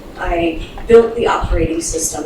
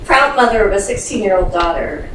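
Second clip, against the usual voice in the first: restart, projected more firmly; speaking up. Real, not acted. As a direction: say it over so the room hears. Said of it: "Okay, we'll start over".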